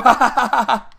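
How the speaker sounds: sarcastic string of ha-has; mocking laugh. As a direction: fake gloating laughter. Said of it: "He's sitting back laughing at me".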